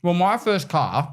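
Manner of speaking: talking with a mouthful; words round a bite of food; mouth full. Real, not acted. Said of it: "I'm talking with my mouth full".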